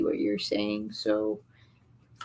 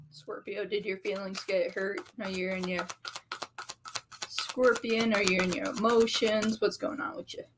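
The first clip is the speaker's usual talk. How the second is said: mock coddling; 6 dB quieter than usual. Real, not acted. Teasing the upset Scorpio.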